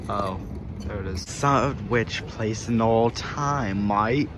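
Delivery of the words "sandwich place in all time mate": slow, lightly put-on British accent; a hint of a mock British accent. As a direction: drawl it out in a playful British accent. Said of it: "For the British accent".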